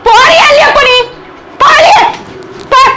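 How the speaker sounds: wife yelling at husband to get out; shouting him out. Acted. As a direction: order him out of the room.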